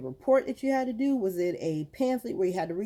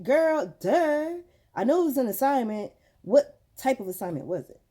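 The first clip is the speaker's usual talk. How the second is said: retold exasperated mom, starting high; mock-impatient "duh", pitched up then settling; getting irritated; 5 semitones higher, 4 dB louder than usual. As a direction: press the kid with mild irritation. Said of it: "So now I'm getting irritated".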